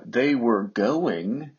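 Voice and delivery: "they were going" drawn out very slowly; slowed-down teacher emphasis; slow, stressed phrase. Shown as a demonstration. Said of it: "It doesn't mean they were".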